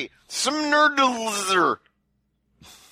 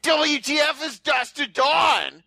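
baffled; 5 semitones higher than usual. Retold or imitated. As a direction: shout it in disbelief. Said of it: "I was like".

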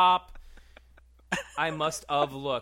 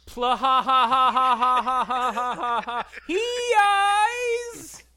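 being tickled; 10 semitones higher, 12 dB louder than usual. Acted. Being tickled, laughing words.

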